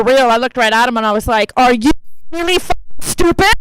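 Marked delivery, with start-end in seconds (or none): 1.6-3.5 exasperated, punching each word; retold angry outburst at a kid; furieux rejoué. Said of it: "I was so mad".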